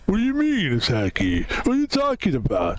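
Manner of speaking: a hint of Rocky Balboa, baffled; Rocky impression. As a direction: protest lightly as Rocky, swooping in pitch. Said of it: "we have to do your fucking accent".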